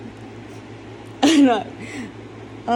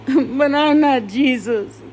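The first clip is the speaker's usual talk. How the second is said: breaking into tears on it; a real sob catching the words; crying; 3 semitones higher than usual. Real, not acted. Grieving son admitting he can't forgive, crying.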